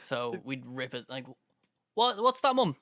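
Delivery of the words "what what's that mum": high, mock-innocent question to Mum; playful high-pitched needling; teasing child. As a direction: tease Mum in a raised voice. Mimics himself teasing his mum.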